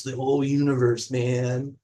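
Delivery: lightly voiced mellow hipster. Waxing cosmic about the universe, mild hipster voice. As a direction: put on a hint of a hipster. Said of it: "in my hipster voice".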